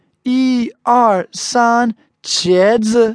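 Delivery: high count-in capped by the photo word; photographer's count. Retold or imitated. Photographer and group posing for a picture, high called-out count. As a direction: count up high, then call out the cheese word. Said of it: "they go".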